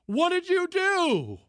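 imitating a frantic husband yelling; retold yell. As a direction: yell it like a panicked owner. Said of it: "He starts yelling at her with".

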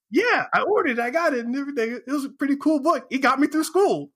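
high, fast, eager fanboy gush; young fan gushing to the author. Retold or imitated. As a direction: rave about the book like a thrilled fan.

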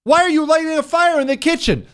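high, startled mock question at the arsonist; baffled question. You catch him lighting a fire in the kitchen, high startled question. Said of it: "and you look over and you say".

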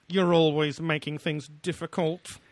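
put-on slow, whiny spoiled girl voice; Veruca Salt. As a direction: drag it out like a bratty kid. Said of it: "as Veruca Salt said".

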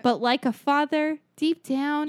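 grand speech. Acted. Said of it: "the way you said it".

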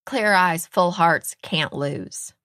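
loud rallying motto, dropping at the end; rally the team like a coach; TV football coach. Retold or imitated. Host quotes Friday Night Lights coach, rallying coach impression. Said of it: "What's Coach always say?".

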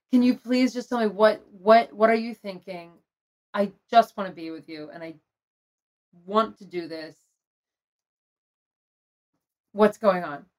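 mildly sad, open-hearted retold plea; sad, not angry. Retelling asking her partner what he's thinking, mildly sad. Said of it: "like, not angry, just sad".

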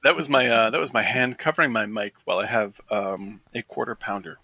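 speaking with food in mouth; chewing while talking. Real, not acted. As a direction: talk through a mouthful. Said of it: "What are you chewing on?".

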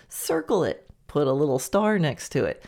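ordinary talk, nothing marked

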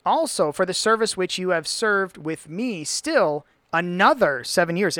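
slow, deliberate verse reading; emphatic scripture reading. Acted. Reader correcting a friend from the verse, deliberate reading. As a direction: measure out each phrase of the verse.

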